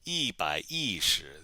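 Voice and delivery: slowly, each syllable drawn out; slow model pronunciation. Shown as a demonstration. Teacher answering how to say one hundred ten, slow model pronunciation. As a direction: stretch it syllable by syllable for learners.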